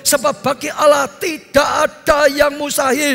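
slow, drawn-out ringing proclamation; forceful, stretched sermon cadence; proclamatory preaching. Real, not acted. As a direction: declaim scripture to the congregation. Proclaims the angel's answer in sermon.

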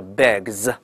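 "bags" with a voiced z straight after g; 词尾发z. Shown as a demonstration. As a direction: draw out "bags" and buzz the final z. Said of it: "发z这个音了啊". ("bags"慢读，词尾发浊音z)

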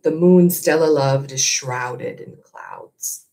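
steady storytelling read to a class; story narration. A narrator's reading. Teacher reading the novel aloud to her class, gentle storytelling. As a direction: read it like a chapter to students.

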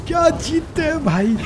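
high, thrilled exclamation; amazed excitement. Real, not acted. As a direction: marvel at the win, pitched high. Amazed right after the win. (जोश भरी हैरानी)

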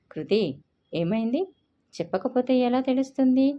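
rising to a sharp loud rebuke; scolding. A narrator's reading. Elder sister snapping at crying sister, sharp scolding. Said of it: "గద్దించింది".

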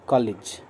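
कॉलेज said as kɔlij, with an ई sound after ल; कॉलेज with a clear ee after the L; correct pronunciation. Shown as a demonstration. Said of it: "ल के बाद ई sound बोलना है". (कॉलेज का शुद्ध उच्चारण, ल के बाद ई)

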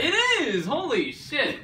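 high, loud delighted laugh; excited laugh. Real, not acted. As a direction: squeal with amazement. Amazed laughing at huge head.

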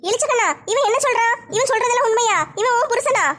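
can't believe what she's hearing; shocked. Acted. Neighbour hears the drunk is the woman's husband, shocked.

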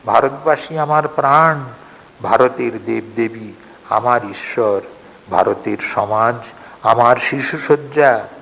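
stirring recitation turning into a hushed prayer; rousing declamation. Acted. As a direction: proclaim it like a call to arms, then sink to prayer. Declaiming Vivekananda's call to Indians.

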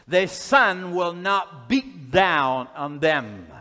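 slow, solemn pulpit reading; measured, weighty reading of a holy promise; scripture reading. Acted. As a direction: stretch the key words and pause between phrases. Reads scripture aloud to congregation.

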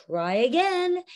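a stern teacherly comeback, arms crossed; stern refusal. Shown as a demonstration. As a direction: Missus Cheap Heap refusing until he asks properly. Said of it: "cross her arms and say".

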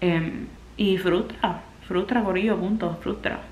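holding back real tears while talking; tearful. Real, not acted. Telling her followers about her frustration, quietly tearful. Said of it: "no he parado de llorar".

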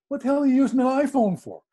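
high-pitched mock bafflement; retold incredulity. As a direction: act out a baffled, indignant question. Retold challenge over using an iPhone.

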